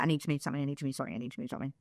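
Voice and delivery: self-soothing murmur fading away; fading pain mantra. Retold or imitated. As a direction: chant it to yourself through the pain, fading. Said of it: "I do this thing when I'm in pain".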